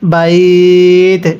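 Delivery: বাইত cut short on a final ত, falling, slow; stopping form. Shown as a demonstration. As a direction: end on বাইত with a clean stop. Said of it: "ওয়াকফ করলে কিভাবে পড়ব".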